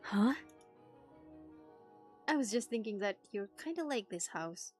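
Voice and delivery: ordinary delivery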